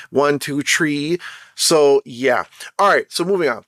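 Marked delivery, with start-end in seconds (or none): 0.6-1.2 "tree" with the Jamaican t for th, rising at the end; Jamaican accent. Shown as a demonstration. The speaker counts to show his Jamaican "tree" for "three". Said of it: "I say tree".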